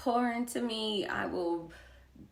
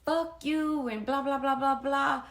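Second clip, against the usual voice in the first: mock angry retort; 6 semitones higher, 4 dB louder than usual. Retelling her angry comeback to the sister, mildly mocking. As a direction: toss it off like a petty snap. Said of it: "immediately I'm like".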